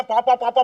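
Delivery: repeated honking syllables in mockery; mocking horn imitation. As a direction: mimic a blaring horn, syllable by syllable. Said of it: "भौंपू की तरह खड़े होके". (भोंपू की नकल में पौं-पौं)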